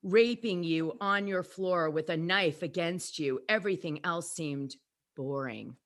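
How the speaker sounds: low, slow seductive reading; breathy seductive DM read; sexy voice. Acted. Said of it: "I'll try to do sexy voice now".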